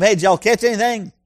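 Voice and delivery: a friendly Southern holler from the shore, mildly done; Jesus calling to the fishermen in a light Southern accent. Acted. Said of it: "That's Southern Jesus".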